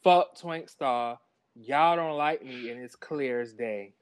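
slow read-out quote. Retold or imitated. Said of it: "She said".

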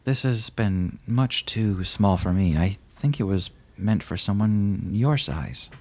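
a grave rider softening for a small gnome; kindly rider. Acted. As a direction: hand over the gift graciously. GM voices Gaspard.

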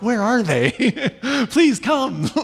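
put-on high, eager plea to the kids; coaxing call down to the basement; calling for kids to come up, high and playful. Dad calling for his kids.

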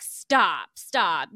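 loud, falling stops; mock pleading to stop; overwhelmed fan half-yelling; disbelieving stop. Retold disbelieving reaction.

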